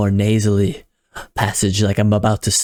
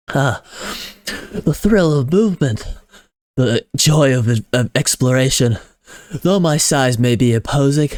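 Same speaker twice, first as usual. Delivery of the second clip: excited Biggles; 3 semitones higher than usual. Acted. Biggles tells the audience of his joy, excited. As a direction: revel in the joy of moving.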